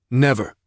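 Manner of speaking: a firm, falling "Never"; emphatic denial. Acted. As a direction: lean hard on "Never". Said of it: "he said emphatically".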